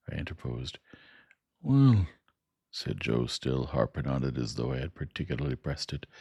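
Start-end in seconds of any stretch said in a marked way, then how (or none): 1.6-2.1 higher, louder Joe, drawing it out at the end; homely Joe spelling out the parting; Joe the blacksmith. Acted. Joe voiced in story.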